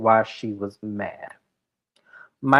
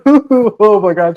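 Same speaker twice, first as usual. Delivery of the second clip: slow, high, louder oh my God; mock disbelief; 8 semitones higher, 7 dB louder, slower than usual. Georgia stunned by Charlie's denial, hammed-up disbelief.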